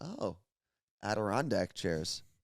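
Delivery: very quiet, low, barely audible murmur. Retelling Carla Marie spotting the Adirondack chairs, her very quiet voice. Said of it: "very quietly says".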